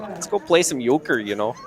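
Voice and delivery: put-on Minnesotan folksiness; Minnesota accent. Commentator joking about northern pastimes, Minnesota accent. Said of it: "that's Minnesota".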